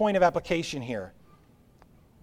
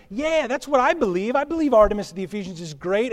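a swept-along townsman eagerly agreeing, a bit faster; eager crowd member; 3 semitones higher than usual. Retold or imitated. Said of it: "everybody's like".

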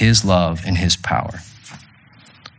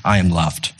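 sincere affirmation; 4 semitones lower than usual. Shown as a demonstration. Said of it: "If you'll just say that".

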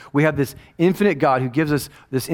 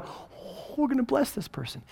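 cheerful; 11 semitones higher, 9 dB quieter, slower than usual. Retold or imitated. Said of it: "You're cheerfully going".

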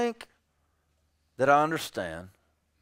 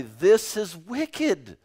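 softer, slower and gentle; loving rebuke; 4 semitones lower, 6 dB quieter than usual. Retold or imitated. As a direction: say it tenderly out of care. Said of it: "It is love that causes me to say".

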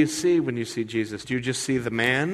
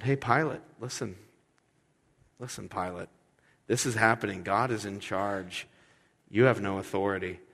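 calm Jesus. Retold or imitated. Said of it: "calmly telling him".

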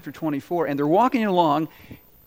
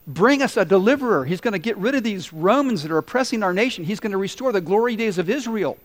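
lifted, eager voice of hopeful Israelites; excited hopeful crowd; 3 semitones higher than usual. Retold or imitated. Preacher voicing Israel's eager hope for a deliverer, excited. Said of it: "they're going".

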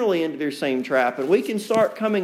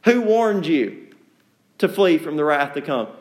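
sarcastic; 4 semitones lower than usual. Shown as a demonstration. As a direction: let the sarcasm drip off it. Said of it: "The sarcasm".

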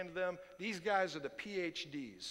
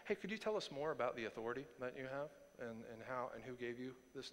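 mock sincere; 6 semitones lower, 10 dB quieter, faster than usual. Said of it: "this question is not sincere".

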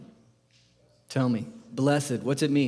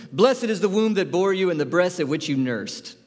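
raised voice; 3 semitones higher than usual. Acted. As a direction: call out a little from the crowd. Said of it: "raised her voice".

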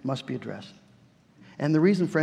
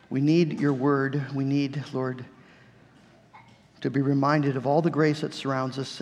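prayer. Acted. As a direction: pray humbly before the Lord. Closing prayer.

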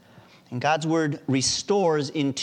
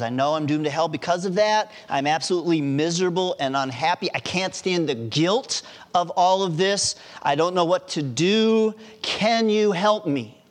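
building, higher retold plea for help; desperate plea; 4 semitones higher, 3 dB louder than usual. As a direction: plead with mild despair, rising to the final question. Acts out despairing doctor's plea.

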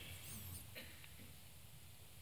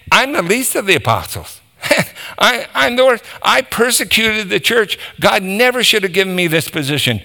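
high-pitched, incredulous-sounding unworthiness; imitating a humbled convert, pitch raised; acted self-deprecation; 6 semitones higher, faster than usual. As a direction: play a man protesting his own unworthiness. Paul's self-deprecation, acted after boast.

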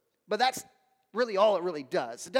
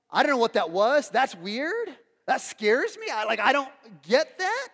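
uneasy questioning lilt, rising at the ends; lightly acted bewilderment; mildly baffled; 4 dB louder than usual. Onlooker reacting to the strange prayer, mildly baffled.

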